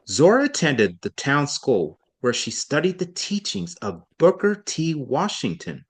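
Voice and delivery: emphasize the name Booker T. Washington; stress on Booker T. Washington. Shown as a demonstration. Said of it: "Notice how I emphasize Booker T. Washington".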